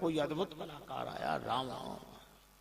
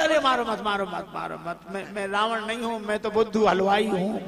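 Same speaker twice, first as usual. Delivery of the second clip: hurried begging, words repeated, lightly acted; mock panicked plea; 4 dB louder than usual. Terrified confectioner begs Angad for mercy, mock panicked plea. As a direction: plead for mercy and stammer out a confession. Impostor begs not to be hit.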